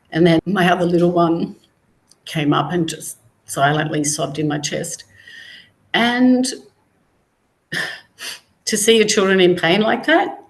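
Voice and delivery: fighting to keep the voice steady; getting emotional. Real, not acted. Recalling telling her daughter about the cancer, choked up. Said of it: "I'm gonna get emotional 'cause I always do".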